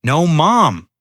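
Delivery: a touch of a sob; tearful refusal; sobbing. A narrator's reading. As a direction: daughter on her knees, tearfully refusing. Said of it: "Emily sobbed".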